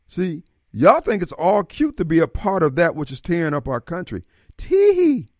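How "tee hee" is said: high mock giggle at them; sneering fake tee-hee. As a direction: titter like a smug fool. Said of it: "Let's see how you be laughing".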